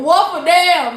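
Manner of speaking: exasperated mock rant. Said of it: "I be like".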